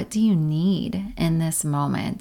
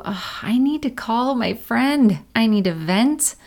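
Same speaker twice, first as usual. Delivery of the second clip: higher and louder, pressing list of needs; rising urgent self-talk; 4 semitones higher, 4 dB louder than usual. Retold or imitated. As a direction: blurt what you need right now. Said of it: "You might also know".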